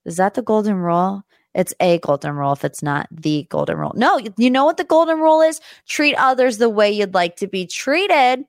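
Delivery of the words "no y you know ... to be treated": excited correction. Real, not acted.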